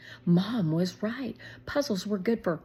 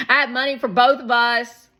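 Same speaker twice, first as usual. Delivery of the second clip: put-on high, loud and fast kid excitement; excited little boy; 7 semitones higher, 13 dB louder, faster than usual. A narrator's reading. Shake telling Shermie about the ice cream money, excited. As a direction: rush it out, thrilled.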